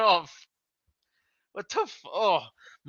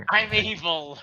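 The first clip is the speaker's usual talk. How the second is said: mustache twirling villain. Pretend. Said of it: "Mustache twirling".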